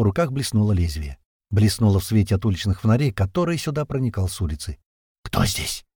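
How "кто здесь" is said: low, hoarse, voiceless blurt. Acted. Wounded man challenging hidden intruders, hoarse blurt. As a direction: rasp it out in alarm, barely voiced. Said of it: "хрипло выпалил Пухлый".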